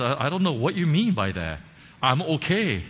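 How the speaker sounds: defensive insistence. Retold or imitated. Insisting he is fine.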